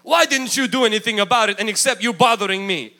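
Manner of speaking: mock-upset telling-off; upset Jesus. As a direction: scold the disciples, easing off after the first question. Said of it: "Jesus is upset at them".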